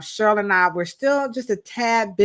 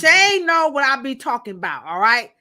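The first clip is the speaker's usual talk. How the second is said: loud, sassy hood emphasis; sassy delivery; 4 semitones higher, 4 dB louder than usual. Shown as a demonstration. Host shows the sassy way to say it to chat. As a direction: say it with hood attitude, leaning on Shane. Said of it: "I gotta say it like that".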